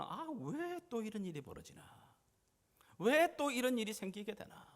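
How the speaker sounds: 높은 음으로 하소연하듯; "왜"를 길게 끌며 원망하듯. Acted. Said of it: "이런 생각보다는". (원망하는 높은 목소리)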